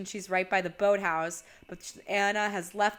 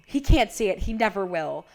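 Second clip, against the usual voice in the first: retold intense frustration; 6 dB louder than usual. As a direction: imitate her insisting forcefully. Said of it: "getting even more intense now".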